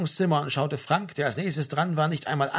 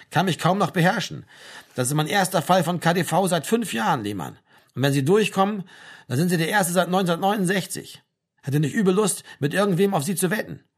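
higher, emphatic, teasing sergeant; amused army sergeant; 4 semitones higher, 3 dB louder than usual. Acted. Sergeant teases soldier about his hearing, amused. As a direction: relish the conscript's odd case.

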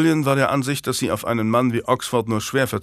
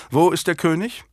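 lightly raised, cold royal voice; a bitter, proud queen speaking; haughty queen; 7 semitones higher than usual. A narrator's reading. (hochmütige Königin, leicht höhere Stimme)

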